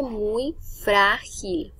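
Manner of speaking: "muy frágil" with FRÁ drawn out; slow down and lean on FRÁ in "frágil"; slow "muy frágil", first syllable of "frágil" held; stress on first syllable. Shown as a demonstration. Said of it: "Me dicen en la segunda".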